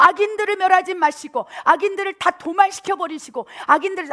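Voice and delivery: loud, high, furious, impassioned voice.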